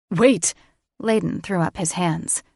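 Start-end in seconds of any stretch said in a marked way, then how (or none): 0.1-0.5 alarmed call. A narrator's reading. Layden stops them.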